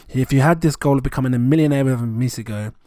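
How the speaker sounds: talking with a mouthful of food; mouth full. Real, not acted. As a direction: speak through a mouthful. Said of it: "I've got so much in my mouth right now".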